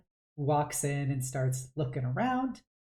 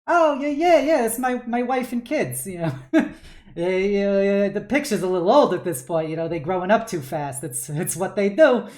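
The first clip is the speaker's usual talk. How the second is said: much higher, louder, beaming talk; proud dad; 5 semitones higher, 6 dB louder than usual. Acted. Dad showing off the family photo, loud and beaming. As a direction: gush about the wife and kids.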